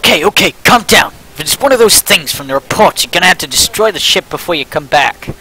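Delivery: put-on lightly done Boston accent; a hint of Boston in the voice. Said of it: "I'm giving him a Boston accent again".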